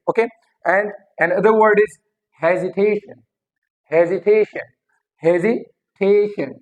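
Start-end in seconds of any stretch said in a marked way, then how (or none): 2.4-6.5 "hesitation" as he-zi-TAY-shun; stress on second-last syllable. Shown as a demonstration. Teacher drilling the stress rule, stressed on TAY. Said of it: "ये rule भी आपको समझ".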